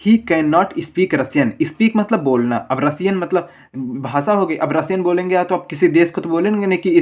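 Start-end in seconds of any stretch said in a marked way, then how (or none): 0.1-1.5 very slow, each word spaced out for the class; slow dictation. Shown as a demonstration. Teacher dictates the example sentence to students, very slowly. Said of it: "पहले इसका उदाहरण देखिए".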